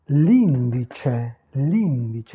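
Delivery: "l'indice" with a held first ee; careful Italian model, "l'indice" as LEEN-dee-cheh; lengthened stressed vowel. Shown as a demonstration. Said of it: "toujours l'allongement vocalique".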